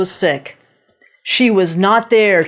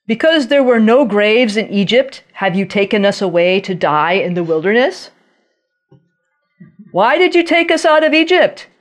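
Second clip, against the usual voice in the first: raised, whiny complaint to Moses; complaining Israelites; 4 semitones higher than usual. Retold or imitated. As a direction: grumble like frightened, bitter people.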